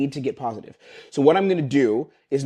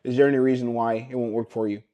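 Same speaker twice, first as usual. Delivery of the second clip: scripted and flat. Shown as a demonstration. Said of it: "Like a script".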